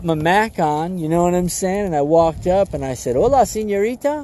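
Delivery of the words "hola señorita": smooth suave greeting. Retold or imitated. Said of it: "all, all, all suave".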